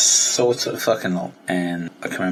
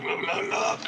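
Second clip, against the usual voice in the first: excited squeal; 6 dB quieter than usual. Real, not acted. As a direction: look look look squeaked very high. Showing off new camera.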